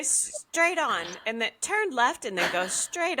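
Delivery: lightly mock the Irish GPS girl; hammed-up Irish sat-nav accent. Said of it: "she'll say".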